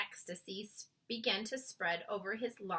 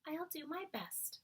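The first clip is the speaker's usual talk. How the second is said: patient; 6 semitones higher, 10 dB quieter than usual. A narrator's reading. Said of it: "Sophie said patiently".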